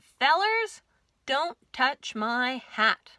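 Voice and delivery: sheriff's slow cowboy warning; gruff sheriff. Acted. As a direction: lay down the law to the fellers, slow and firm. Sheriff warns barber.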